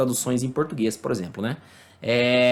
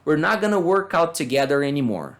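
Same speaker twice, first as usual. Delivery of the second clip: model reading. Shown as a demonstration. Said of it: "Vamos ler uns, alguns exemplos".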